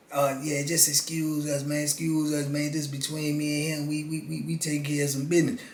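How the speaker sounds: lightly voiced quiet raspy con; low raspy voice. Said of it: "he talk low with a little raspy voice".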